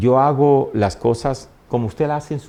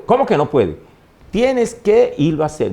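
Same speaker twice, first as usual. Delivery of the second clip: brava sin gritar; 6 semitones higher than usual. Retold or imitated. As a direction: scold firmly without shouting. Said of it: "brava, pero nunca decía, nunca gritaba". (madre brava pero sin gritar)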